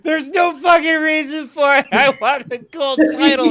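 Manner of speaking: high, loud, laughing wail of desperate want; mock desperate wailing. Gamer retelling her surrender to the game, loud laughing wail. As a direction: wail it like a hopeless addict, laughing. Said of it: "crying on the floor".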